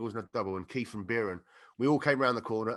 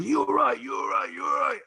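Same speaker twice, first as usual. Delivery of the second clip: much higher, louder worried call; mock worried shout; 12 semitones higher, 4 dB louder, slower than usual. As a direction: rush over calling out in alarm. Man rushing over after fall.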